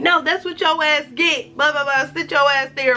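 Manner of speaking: high-pitched mock telling-off; cussing-out mama. Mama refusing her stranded daughter, high mock scolding. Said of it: "My mama cussed me out".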